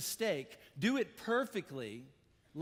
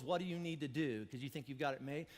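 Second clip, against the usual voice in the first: the jabs turned quiet and lower; softer, quieter repeat; 5 semitones lower, 6 dB quieter than usual. Shown as a demonstration. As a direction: lower and softer, almost to himself. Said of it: "same words again, softer".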